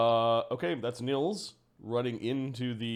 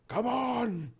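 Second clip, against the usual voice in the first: loud, high-pitched shout; acted yell; 12 semitones higher, 4 dB louder than usual. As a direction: yell it out to hurry someone along. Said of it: "He's, he's yelling".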